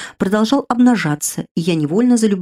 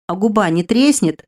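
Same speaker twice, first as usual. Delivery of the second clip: indignant; 3 semitones higher than usual. Acted. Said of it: "возмутился Лаш".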